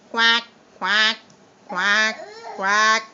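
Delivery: put-on low, quacky duck voice for the kids; duck quack. Shown as a demonstration. Teacher imitates duck for class.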